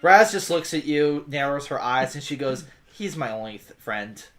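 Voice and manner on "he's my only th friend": low, quiet, guarded grumble; sullen protest. Acted. Adventurer defending her only friend, low and sullen. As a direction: keep it low and small.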